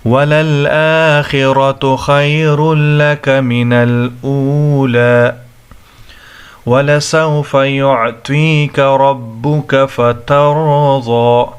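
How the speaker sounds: slow, melodic tajweed recitation; Quran recitation. Acted. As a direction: recite with long, measured vowels.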